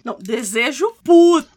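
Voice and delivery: an emphatic loud interjection. Real, not acted. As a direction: blurt it out hard. Declares that Desire is furious.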